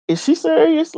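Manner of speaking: can't believe she's staying; retelling her shock at the friend setting up; incredulous. Retold or imitated. Retold disbelief at friend setting up.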